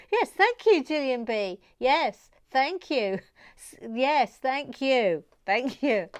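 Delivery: smug delight; gleeful thank you; triumphant thanks. Real, not acted.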